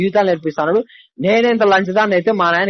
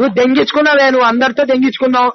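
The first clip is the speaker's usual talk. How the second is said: furious accusation; 4 semitones higher than usual. Real, not acted. Furious accusation in breakup fight.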